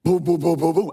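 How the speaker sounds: loud rapid-fire "boom" thuds; imitated banging. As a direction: pound out the noise with your voice.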